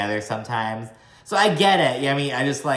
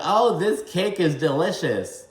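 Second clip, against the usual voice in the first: mocking impression; 5 semitones higher than usual. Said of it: "her impression".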